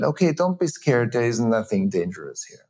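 brisk, matter-of-fact brush-off; mentally dismissive reassurance. Shown as a demonstration. Father brushing off his scared child, mildly matter-of-fact. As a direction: wave the fear away with logic. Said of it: "Either I tell my child".

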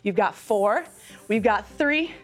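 calm counting cues; fitness instructor. Acted. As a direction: coach them through the reps. Leads sculpting exercise.

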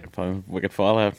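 playful mock Boston accent. Guest joking about the game's setting, Boston accent. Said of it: "I talk like that".

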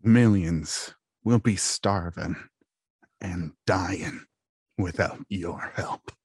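slow, fading Gungan voice; Jar Jar voice. Retold or imitated. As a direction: drag it out as Jar Jar. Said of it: "I'm gonna do the next one".

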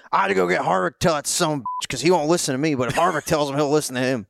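high mock dad voice, griping; imitating a dad. Son retelling his old man's gripe, high and mocking. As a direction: put on a fussy old man voice. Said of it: "He was like".

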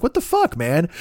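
sharp high incredulous outburst; high squeak of disbelief at a friend. Retold or imitated. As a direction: blurt it out in disbelief. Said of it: "I'm like".

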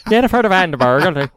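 playful mock name; cheeky imitation. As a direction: mimic it with a cheeky twist. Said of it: "He put the cheeky in".

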